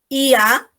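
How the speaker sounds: "I A" as two distinct vowels in hiatus; separated vowels. Shown as a demonstration. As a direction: pull "I A" apart, each vowel sounded. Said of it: "Se tienen que separar estas dos". ("I A" como dos vocales separadas)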